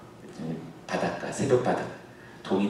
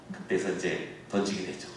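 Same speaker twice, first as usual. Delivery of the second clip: ordinary talk, nothing marked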